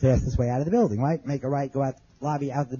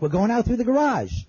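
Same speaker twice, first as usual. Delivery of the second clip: raised-pitch reply, not truly shouted; retold yelling back; 7 semitones higher than usual. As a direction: re-enact calling back to someone at a distance. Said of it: "I yell back".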